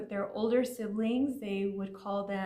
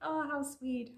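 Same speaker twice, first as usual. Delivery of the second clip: cooing; 5 semitones higher, slower than usual. Shown as a demonstration. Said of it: "that's just kinda like saying".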